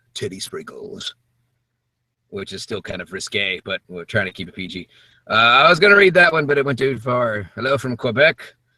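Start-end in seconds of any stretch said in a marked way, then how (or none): 0.1-1.1 whispered, hushed, breathy, grand epic delivery. Asked for a favorite word to say, answering in an epic voice. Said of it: "Favorite word to say in my epic voice".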